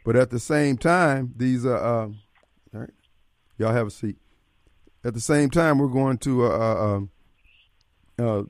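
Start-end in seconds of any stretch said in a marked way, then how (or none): 5.8-8.4 losing the thread, hesitating; words fade into filler sounds; trailing off. Real, not acted. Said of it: "I lost my train of thought here".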